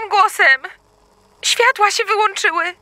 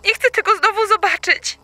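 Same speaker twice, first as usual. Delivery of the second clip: ordinary delivery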